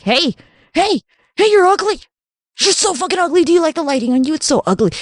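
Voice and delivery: high, sing-song taunting voice; hammed-up high mocking tease. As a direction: tease them like a playground bully. Taunting others about their looks.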